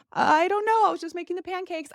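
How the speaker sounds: high, flustered near-crying reply; scared teen covering her panic, high and shaky-voiced; panicked. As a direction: blurt it out high and rattled. Panicked teen hiding pregnancy fear.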